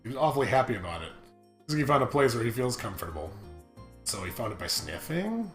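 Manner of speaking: soft, low read-aloud; story narration. Acted. Player reads the game's text aloud, soft narration.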